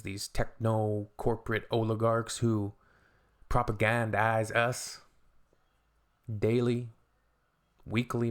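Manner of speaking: measured orator's delivery, weighty pauses; speech mode. Real, not acted. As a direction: deliver it like a rousing political speech. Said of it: "Getting into my speech mode".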